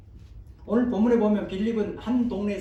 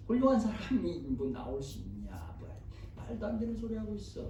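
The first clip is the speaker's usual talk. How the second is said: mildly acted scoff; a touch of mocking disbelief; sarcastic dismissal; 3 dB quieter than usual. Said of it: "굉장히 빈정대는 말이고". (은근히 빈정대는 말투)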